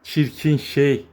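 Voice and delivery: drawn out slowly, "Çirkin" leaned on; fond mock insult, stretched long; slow affectionate tease. Real, not acted. Calling the kitten ugly fondly, slow and drawn out. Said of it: "repeats it slower".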